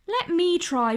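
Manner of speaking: begging. Acted. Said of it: "begged Desmond".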